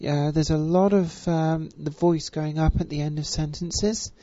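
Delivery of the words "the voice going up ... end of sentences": "sentences" lifted at the end like a question; rising sentence ending. Shown as a demonstration. Voice coach demonstrating consensus-seeking speech, questioning rise on "sentences". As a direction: let the pitch go up on "sentences". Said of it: "that's a good one for you".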